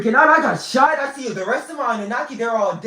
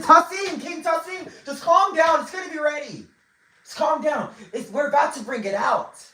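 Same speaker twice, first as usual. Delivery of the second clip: higher, coaxing calm-down voice; placating voice; 7 semitones higher than usual. Retold or imitated. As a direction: soothe an impatient guest. Hosts calming an impatient king.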